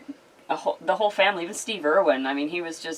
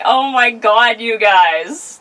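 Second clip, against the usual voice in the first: mock tabloid gushing; 6 semitones higher, 7 dB louder, much slower than usual. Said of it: "And I was like".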